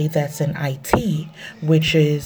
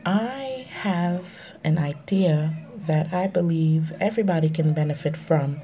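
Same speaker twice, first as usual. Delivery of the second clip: bathroom echo; recorded in an echoey bathroom; 5 dB quieter than usual. Real, not acted. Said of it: "I'm sorry if you can hear me echoing".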